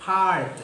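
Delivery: പാഴ്റ്റ് as part, long back aa and no r sound; model pronunciation. Shown as a demonstration. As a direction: say പാഴ്റ്റ് clearly, silent r, back vowel. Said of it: "അപ്പൊ നമ്മളിത് pronounce ചെയ്യേണ്ടത്". (പാഴ്റ്റ് റ ഉച്ചരിക്കാതെ പറയുക)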